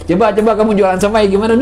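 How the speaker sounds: husband teasing his wife in the car, quick and playful; teasing challenge. Retold or imitated. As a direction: egg her on to sell somai, teasing. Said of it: "saya ledekin tuh di mobil".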